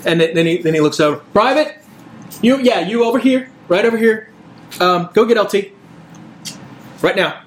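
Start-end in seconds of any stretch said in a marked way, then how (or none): 1.3-7.4 calling out. Acted. Sergeant calling a private over.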